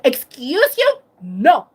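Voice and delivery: sharp reproach to a snapping dog; firm scolding. Retold or imitated. Scolding the little dog that snapped, firm. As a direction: put it bluntly, no room for argument. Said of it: "be direct".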